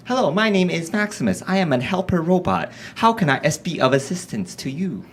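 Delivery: lightly voiced helper robot, stiff and polite; a hint of a robot offering help; mild robot voice, eager to assist; Maximus voice. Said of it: "he talks like this".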